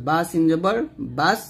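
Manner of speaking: বাস with a light, thin s and open a; thin sin. Shown as a demonstration. Teacher spelling it out for students, thin sin in বাস. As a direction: keep the s of বাস thin after বা সিন জবর. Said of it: "পাতলা করে সিনের উচ্চারণ করতে হবে".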